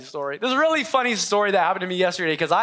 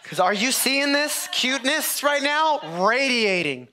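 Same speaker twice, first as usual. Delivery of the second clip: gushing over cuteness; 4 semitones higher, slower than usual. Real, not acted. Gushing over puppy photo.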